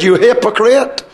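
firm, emphatic accusation at full preaching voice; upset rebuke. Shown as a demonstration. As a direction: demonstrate a blunt, heated denunciation. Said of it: "I tell you the way he said it".

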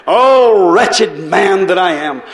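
a burst on Oh, then slow anguished wail; cried out. Acted. Preacher acting Paul crying out to congregation, anguished. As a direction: cry it out like a man at his limit. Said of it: "Paul cried out".

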